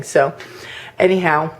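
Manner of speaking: ordinary delivery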